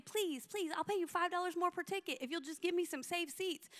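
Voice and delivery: retold pleading. Leader begging organisers for saved seats, soft mock plea. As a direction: plead gently, as if retelling it.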